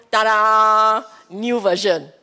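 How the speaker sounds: a craving popping up to show off its new version; playful announcer touch on Ta-da; new craving announcing itself. Retold or imitated. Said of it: "fella will step up and go".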